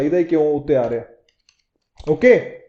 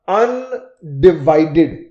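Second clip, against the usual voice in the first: slow careful word; 2 semitones lower, much slower than usual. Shown as a demonstration. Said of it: "ਅਗਰ ਮੈਂ ਲਿਖਾਂ".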